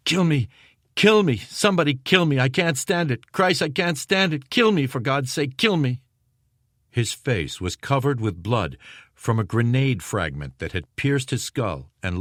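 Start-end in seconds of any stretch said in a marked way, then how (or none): 0.1-6.0 begging for death through the pain; screaming in agony. A narrator's reading. Wounded Jackson screaming in the cellar, high desperate scream. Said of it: "began screaming".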